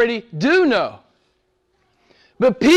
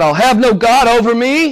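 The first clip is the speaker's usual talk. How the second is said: defiant quote; 5 dB louder than usual. Retold or imitated. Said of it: "The confession of the man or woman who's indifferent".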